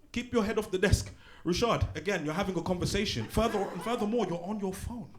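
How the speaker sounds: a hint of stern teacher; teacher telling Rashad off in class; teacher scolding. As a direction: list his offences like a tired teacher.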